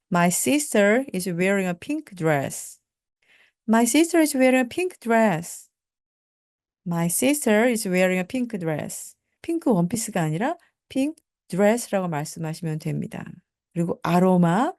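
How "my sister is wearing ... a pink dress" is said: slow, careful model sentence; deliberate classroom pronunciation; slow teaching drill. Shown as a demonstration. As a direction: say it slowly for learners to repeat. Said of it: "slow model sentence drill".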